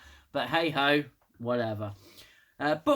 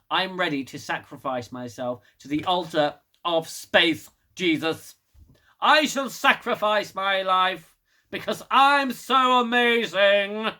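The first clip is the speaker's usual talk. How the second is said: mock heroic Detmer; 3 semitones higher, 4 dB louder than usual. Parodying Detmer's eagerness, hammed-up grandeur. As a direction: ham up a self-important volunteer. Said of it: "And Detmer just goes".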